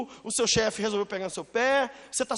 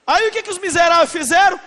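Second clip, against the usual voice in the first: preacher shouting the story; preaching shout; 6 semitones higher, 10 dB louder than usual. Acted. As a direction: preach it hard. Preaching at full force.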